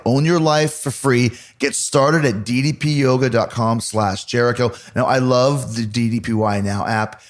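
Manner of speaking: upbeat sponsor read, selling it. Acted. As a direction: pitch the app like a radio spot.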